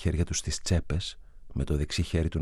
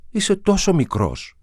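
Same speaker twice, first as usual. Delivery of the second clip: sadly; 13 semitones higher, 6 dB louder, slower than usual. A narrator's reading. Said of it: "του είπε θλιμμένα".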